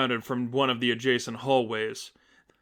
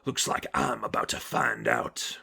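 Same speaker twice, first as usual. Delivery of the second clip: sneering Croc; 5 dB quieter than usual. Acted. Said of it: "Croc sneered".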